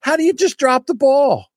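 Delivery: very high, incredulous squawk; high-pitched fan outrage; exasperated disbelief. Acted. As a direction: react aghast to a fumbled play. Disbelief at the fumbled snap.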